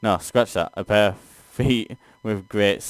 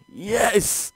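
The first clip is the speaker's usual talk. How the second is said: high, triumphant yelp; excited cheer; 12 semitones higher than usual. Real, not acted. Player cheering as the demon falls, in a high excited yelp. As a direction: celebrate the win with a squeal.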